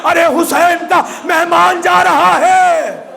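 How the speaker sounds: slow, high grieving call; lamenting cry. Acted. Husayn calling out as Hurr dies, in a slow high wail. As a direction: cry it out over the fallen guest.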